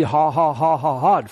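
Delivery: spoken string of ha-ha-ha; imitated faith laugh. Preacher retelling Brother Hagin laughing for forty-five minutes, imitated laugh. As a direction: mimic a deliberate, willed laugh. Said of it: "you can just do a faith laugh".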